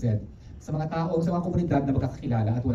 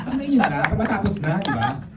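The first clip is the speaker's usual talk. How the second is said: "Banggain nyo na" laughed out, higher and louder; laughing; 7 semitones higher, 5 dB louder than usual. Real, not acted. Director daring the audience as a joke, "Banggain nyo na" with a laugh.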